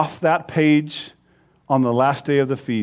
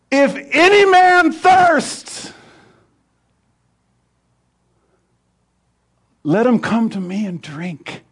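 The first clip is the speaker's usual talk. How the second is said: crying out; 3 semitones higher, slower than usual. Acted. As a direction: call out slowly like Jesus to the crowd. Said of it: "Jesus cried out".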